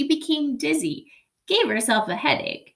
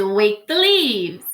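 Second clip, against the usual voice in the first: strong call; 3 semitones lower, 5 dB louder, slower than usual. Acted. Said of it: "Wadney's voice was stronger".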